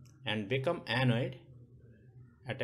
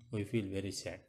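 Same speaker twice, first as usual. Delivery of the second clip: mock sad; 6 semitones lower, 8 dB quieter than usual. Shown as a demonstration. Teacher showing children what sad sounds like, lower and softer.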